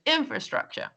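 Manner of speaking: INfrastructure, high on IN and falling; careful model "infrastructure", leading with a high IN; stress on first syllable. Shown as a demonstration. Teacher retrying a complicated word, stress on first syllable. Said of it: "a complicated word to pronounce".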